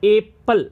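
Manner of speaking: "एप्पल" said clearly as "ep-pal"; pronunciation demo. Shown as a demonstration. Teacher showing how apple is read, pronunciation demo. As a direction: sound out "एप्पल" in two clear beats. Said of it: "ए को हम पढ़ रहे हैं".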